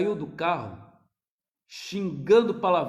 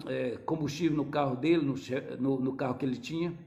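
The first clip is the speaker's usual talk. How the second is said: ordinary delivery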